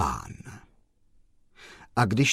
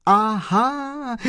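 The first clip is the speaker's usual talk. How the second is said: high, louder joyful shout; joyful cry; 13 semitones higher, 4 dB louder than usual. Acted. Postman shouts for joy at the chauffeur, high and loud. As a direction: cry out with delight. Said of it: "vykřikl pan Kolbaba radostně".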